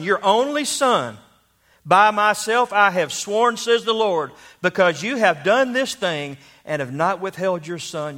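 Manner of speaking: lightly declaimed, emphatic preaching voice; emphatic scripture recitation. Acted. Preacher quoting God's words to Abraham, emphatic scripture recitation. Reads scripture as God speaking.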